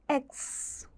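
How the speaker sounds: എക്സ് said slowly and softly ending in a hissed s; correct x. Shown as a demonstration. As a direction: end എക്സ് on a soft s. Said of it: "it is എക്സ്".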